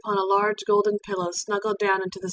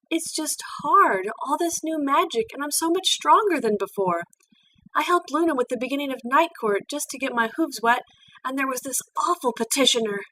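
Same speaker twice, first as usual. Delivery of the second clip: upset Twilight; 6 semitones higher than usual. Acted. Twilight confesses, near tears.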